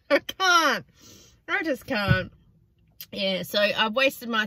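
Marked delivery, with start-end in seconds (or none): 0.1-2.3 loud, giggling I-can't; laughing disbelief. Real, not acted. Still laughing about the odd encounter, giggling. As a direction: laugh through it helplessly.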